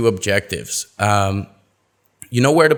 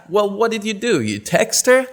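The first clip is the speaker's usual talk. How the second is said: suspicious reply; 10 semitones higher than usual. Acted. Acted reply in dialogue.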